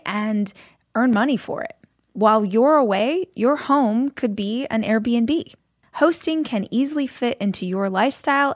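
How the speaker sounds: upbeat sponsor read, steady and clear; friendly ad read over music. Acted. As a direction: sell it like a host-read podcast ad. Reads a sponsor ad.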